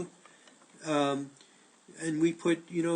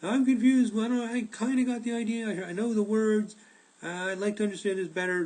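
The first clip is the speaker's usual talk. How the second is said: confused student; 6 semitones higher than usual. Retold or imitated. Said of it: "Many people say".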